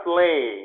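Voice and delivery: 슬레이 with a long, falling 이; long vowel. Shown as a demonstration. Teacher models for the class, 슬레이 with a lengthened ending. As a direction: hold the final sound of 슬레이. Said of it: "이 발음이 좀 길게 나".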